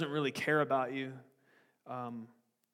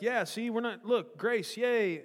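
mock trumpeting; 5 semitones higher, slower than usual. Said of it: "they're trumpeting it like".

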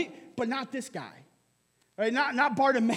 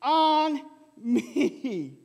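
raised, drawn-out plea; louder shout; 4 semitones higher, slower than usual. Acted. Blind beggar pleads over the crowd, calling out. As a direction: cry it out high, stretching the last words. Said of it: "he only shouted louder".

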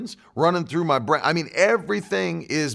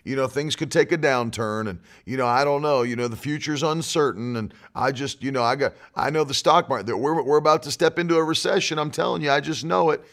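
imitating everybody else's talk; 3 semitones lower than usual. Preacher mimicking what everybody else is saying, low hedging mock. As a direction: hedge along like a resigned doomsayer. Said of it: "I don't just say what everybody else is saying".

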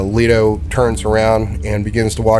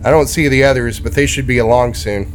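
beast folk Leto, lightly raised; 3 semitones higher than usual. Acted. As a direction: cheerfully introduce the others.

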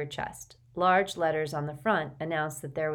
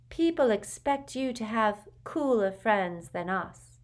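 Luna's voice; 5 semitones higher, slower than usual. A narrator's reading. Luna speaks her honest mind.

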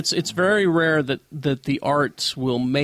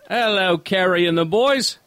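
attempted British accent, slightly lifted; put-on British accent; 3 semitones higher than usual. Letter reader greeting the hosts as British Tom, put-on accent. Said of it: "He's got an accent?".

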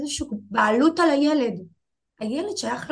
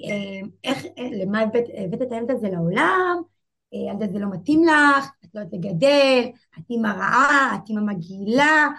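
mildly raised, accusing retelling of her parents; retold harsh accusation. Parents berating the new mother as a bad mom, mildly raised accusing voice. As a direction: replay the parents' scolding with some heat, not a full yell. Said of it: "ואז הם אמרו לי".

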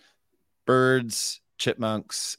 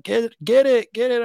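high, loud "get it" cries; high excited shouts; mock panic; 8 dB louder than usual. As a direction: squeal like campers spotting a mouse. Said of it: "everybody's like".

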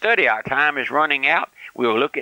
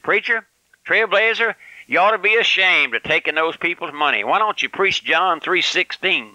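much higher pitched, lightly voiced scolding critic; mock accuser; 5 semitones higher than usual. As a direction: squeak out the critic's reproach in mockery. Quoting a scolding letter writer.

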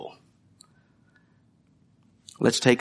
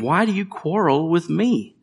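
Moses pleading; 5 semitones higher than usual. Retold or imitated. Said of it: "And Moses said to them".

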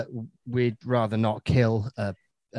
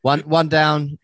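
louder and faster, a worked-up turtle warden; turtle conservationist voice; 2 semitones higher, 5 dB louder than usual. Pretend. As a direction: report the losses like a frantic conservationist. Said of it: "Imagine you do, like, turtle conservation".

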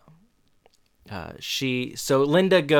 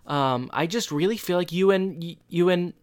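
stammering imitation, pitched higher; hesitant, awkward quote; 5 semitones higher, 4 dB louder than usual. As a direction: haltingly mimic an awkward admission. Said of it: "funny the way he said it".

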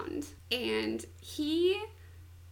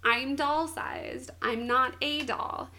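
mild mock yell; slower than usual. Doll-sized woman yelling at him, mildly exasperated. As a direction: imitate her insisting, only half yelled. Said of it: "she yells at him".

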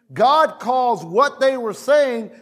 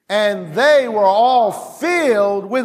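leading the reading; 3 dB louder than usual. Shown as a demonstration. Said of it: "read this verse with me".

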